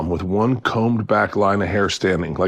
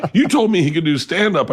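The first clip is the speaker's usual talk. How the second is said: higher, indignant manager retold; mock complaint; 7 semitones higher than usual. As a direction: imitate an accusing manager, half laughing. Voices complaining club manager.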